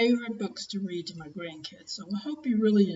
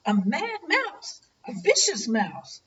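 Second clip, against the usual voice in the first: louder, panicky mock holler; 6 semitones higher, 4 dB louder than usual. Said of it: "ran hollering out of the park".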